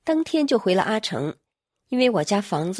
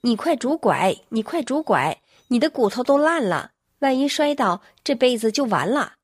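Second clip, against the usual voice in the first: anxious call while chasing; mild mock shout of alarm; worried calling; 3 semitones higher than usual. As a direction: call after her to use the crutches. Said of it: "边追边喊".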